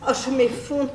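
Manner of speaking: theatrical swooning. Acted. Overdramatic woman claims she is collapsing, swooning theatrically. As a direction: swoon grandly, peaking on the last exclamation. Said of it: "je me pâme".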